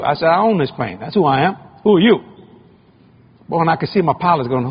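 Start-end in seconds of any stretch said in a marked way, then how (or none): 0.3-2.2 defiant retort. Retold or imitated. Preacher retorts to FAA inspector.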